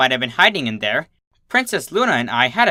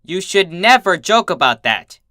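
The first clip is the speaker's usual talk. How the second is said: scolding; 4 semitones higher, 4 dB louder than usual. Acted. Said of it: "Twilight shouted over my laughter".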